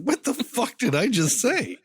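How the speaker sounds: high-pitched, incredulous self-reproach; appalled at oneself. Retold or imitated. Podcaster replaying the shock at what they just said, appalled. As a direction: voice shoots up in disbelief at your own words. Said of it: "immediately I was like".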